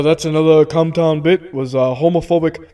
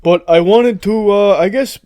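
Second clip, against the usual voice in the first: halting, slightly raised politician voice; Bernie Sanders; 2 semitones higher, 3 dB louder than usual. Acted. Politician guest replies to hosts, halting impression. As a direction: hesitate along as the politician guest. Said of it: "Bernie, you sound very worldly".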